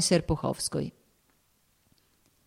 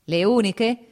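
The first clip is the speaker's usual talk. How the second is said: light teasing rise on uniche; smiling question; 4 semitones higher, 4 dB louder, slower than usual. Acted. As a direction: ask back with a knowing smile. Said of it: "chiese di rimando, sorridendo".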